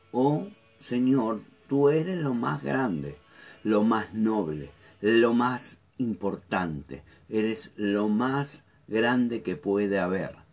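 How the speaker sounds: slow, awed prayer to the Lord; slow reverent prayer. Acted. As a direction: pray it slowly in awe. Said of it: "David ya empieza diciendo". (oración lenta y reverente)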